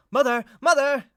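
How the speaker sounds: high, loud call through a door; loud, high two-syllable holler. Acted. Calling through a closed door.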